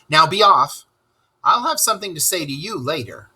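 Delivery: a hint of a firm water rat giving orders; stern Rat. Rat ordering muddy Toad upstairs, firmly.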